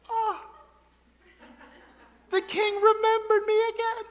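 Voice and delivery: high, smug voice of a proud man; prideful Haman. Retold or imitated. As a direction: preen like a vain courtier. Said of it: "Haman is so prideful".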